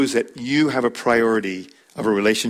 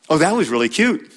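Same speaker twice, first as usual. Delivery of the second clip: sarcastic; 4 semitones higher than usual. Shown as a demonstration. Teacher showing husbands how sarcasm sounds, sarcastic. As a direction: sneer it so "cute" stings. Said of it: "different intonation".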